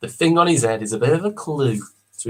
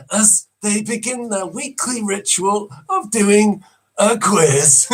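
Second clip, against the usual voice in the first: slow, hushed wildlife narration; gentle awed nature presenter; nature documentary; 5 semitones higher, slower than usual. Acted. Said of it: "One of the most famous guys ever".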